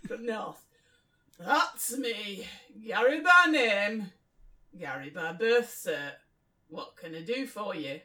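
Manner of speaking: slow, stretched Northern English; very northern English accent. Acted. Bill introduces himself to a stranger, very northern English accent. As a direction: lay on the northern English vowels. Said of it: "I'll do Bill very northern then".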